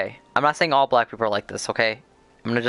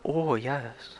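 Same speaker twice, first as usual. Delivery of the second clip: soft, hushed mock Asian old man accent; a quiet, lightly put-on old Asian man accent; 8 dB quieter than usual. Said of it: "doesn't he sound like an old Asian guy".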